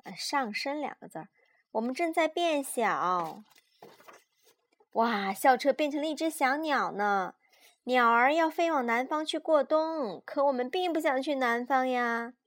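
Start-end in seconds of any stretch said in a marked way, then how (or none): 1.7-12.3 put-on lively, measured read-aloud for small children; children's story narration. A narrator's reading. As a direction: read a picture book to a child.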